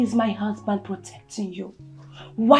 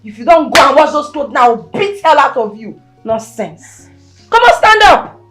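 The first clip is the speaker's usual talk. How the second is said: angry scolding; 4 dB louder than usual. Acted. Mother scolding lying stepdaughter.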